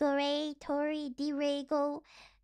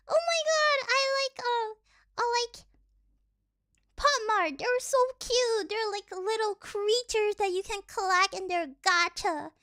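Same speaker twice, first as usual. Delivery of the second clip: higher, gushy collector voice; gushing fangirl; 5 semitones higher than usual. Retold or imitated. Mocking Pop Mart fans, higher gushing voice. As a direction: gush over Pop Mart. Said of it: "And they're like".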